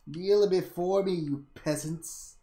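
slow, hammed-up decree with laugh; mock god-king. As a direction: lord it over the peasants. Plays a god to his viewers.

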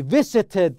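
"Visited" said loudly with a distinct final id; clear -id ending. Shown as a demonstration. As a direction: model "Visited", sounding out the last syllable as id. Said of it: "لاحظ هنا النطق الأخير آي دي".

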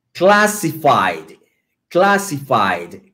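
"Classified" stretched out syllable by syllable; slow model. Shown as a demonstration. English teacher giving students a word to repeat, slow model. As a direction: say "Classified" very slowly for learners. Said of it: "Listen and repeat".

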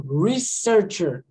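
"Researcher" slow and evenly sounded out; word modelling. Shown as a demonstration. Teacher asking what the word is, slow careful demo. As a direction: model "Researcher" slowly on its own. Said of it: "Que palavra é essa?".

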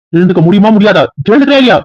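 rising to a shout, pitch climbing high at the end. Acted. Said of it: "சரி, கத்தாதீங்க".

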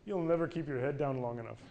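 punchline half laughed out; laughing punchline. Retold or imitated. Speaker to audience, finishing the golf joke while laughing. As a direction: let the laugh leak into the last line.

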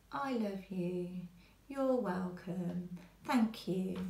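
slow, gentle kind words. Shown as a demonstration. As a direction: say I love you and You're welcome tenderly and slowly. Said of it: "The tone changes the actual structure".

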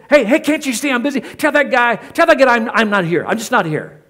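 dad too busy to answer; irritated dad. Retold or imitated. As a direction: brush off the phone call impatiently.

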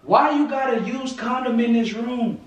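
high, heated demand for answers; angry interrogation. Real, not acted. Boyfriend asking what she did last night, angry.

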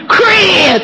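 high drawn-out call of "Chris"; Grandma calling names. Retold or imitated. Grandma calling a girl named Crystal, high drawn-out call. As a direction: holler the name long, like Grandma. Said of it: "she said them wrong".

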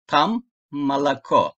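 "malako" with a full O only on the stressed last syllable; stressed O, unstressed A. Shown as a demonstration. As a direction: say "malako" with A in the first two syllables, stressed O at the end. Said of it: "Vurgulu O'yu O olarak okudum, diğerlerini A". ("malako": vurgulu son hece O, diğerleri A)

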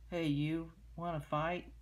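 loud grouchy challenge; ladybug voice. Acted. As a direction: bark it like a grumpy bug.

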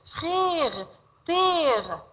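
"Frère", "père" with a long open è; teacher modelling "Frère", "père" with stretched vowels; drawn-out vowel. Shown as a demonstration. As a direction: hold the è in "Frère" and "père", pitch arching high then falling. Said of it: "We pronounce like A".

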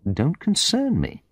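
high, disbelieving echo; incredulous retort. A narrator's reading. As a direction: throw the words back in disbelief.

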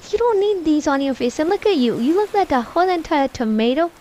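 loud, exasperated telling-off; acted scolding. Mother tells child off over makeup, scolding loudly.

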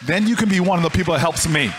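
loud, fast punchline; rising declaration. Retold or imitated. Miss Jones ends her lesson to young Booker, loud and fast. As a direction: land it with force.

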